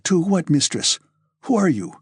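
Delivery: plain reading voice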